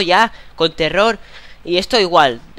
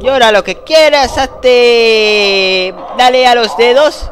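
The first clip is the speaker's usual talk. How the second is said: loud, high shouts at the game; frustrated yelling; 6 semitones higher, 9 dB louder, slower than usual. Real, not acted. Gamer yelling at the crying baby, loud and high. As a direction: yell at the screen to hurry it.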